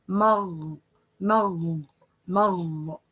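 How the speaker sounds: wrong, qaf-like ending on مغ; ghain confused with qaf. Shown as a demonstration. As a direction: say مغ with its ghain drifting toward q. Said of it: "confuse the sound of ghain by".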